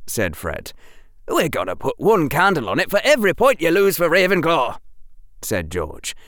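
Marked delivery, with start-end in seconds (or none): 1.3-4.8 high, bright teasing twin; playful schoolboy teasing; cheerful twin voice. Acted. George voiced in story.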